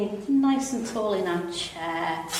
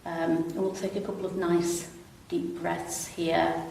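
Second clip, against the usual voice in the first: calm, unhurried stretch instructor; easy, even yoga-class delivery with long pauses; guided relaxation; 5 dB quieter than usual. Real, not acted. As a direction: guide them gently through it, pausing between phrases. Leads gentle seated stretches.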